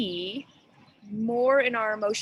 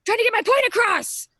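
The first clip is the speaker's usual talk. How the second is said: teary retold reply; 11 semitones higher, 9 dB louder than usual. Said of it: "I'm like".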